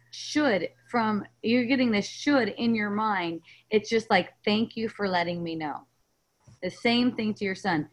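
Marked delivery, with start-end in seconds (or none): 4.4-5.9 calm, lower acceptance; a softly grateful reply, gently let down at the end; appreciative. Acted. Coach models answering one's own guilty thoughts, appreciative. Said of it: "just like that kind of energy".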